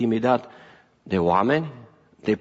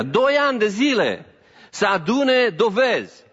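Doi ani de zile pitched high, să adune dovezi slowed; emphatic preaching; 9 semitones higher than usual. Acted. Preacher stressing to the congregation how long the case took, raised and emphatic. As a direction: raise it up to drive home two years.

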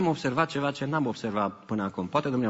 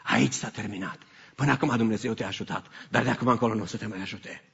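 evil one's whisper; 5 semitones lower, 3 dB quieter than usual. Retold or imitated. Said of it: "șoapta celui rău care ne spune".

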